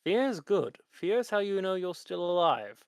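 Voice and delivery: Lich voice. Acted. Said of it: "said the Lich to the human".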